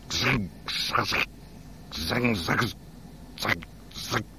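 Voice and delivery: chitter like an alien co-pilot; alien chatter. Acted.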